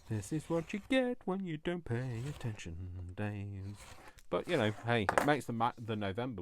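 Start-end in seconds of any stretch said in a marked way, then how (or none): 0.1-3.8 mock scolding. Crafter tells herself off as Dave, mock scolding. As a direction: tell yourself off playfully.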